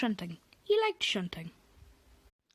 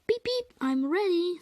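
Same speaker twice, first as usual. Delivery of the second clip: higher, louder, slow and keen; eager little engine; 8 semitones higher, 5 dB louder, slower than usual. Acted. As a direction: beep it out ready to help. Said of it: "said Edward".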